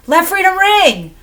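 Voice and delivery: high, loud proclamation; rousing cry. Pretend. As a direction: proclaim it to the whole crowd. Mock-rousing cry after mantra.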